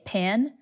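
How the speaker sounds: "pan" as one merged sound for pin and pen; merged pin-pen vowel. Shown as a demonstration. Explaining the pin-pen merger, "pan" with merged vowel. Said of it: "it's called the pin-pen merger".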